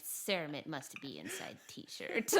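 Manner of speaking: slow, lightly put-on simple dog voice; Cermet dog voice. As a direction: speak as a stubborn, simple-minded dog. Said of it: "created this voice for Kermit".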